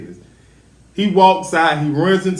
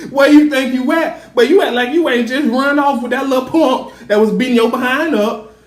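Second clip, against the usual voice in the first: higher-pitched mock parental telling-off; retold scolding; 6 semitones higher than usual. Jacob forbids his daughter a private call, scolding. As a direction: lay into her like a fed-up father.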